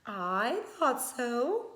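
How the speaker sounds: slow, knowing and kind; old woman, slow and satisfied; with a smile. Acted. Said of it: "said with a smile".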